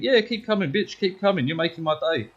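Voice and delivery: cocky goading. Retold or imitated. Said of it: "just fucking".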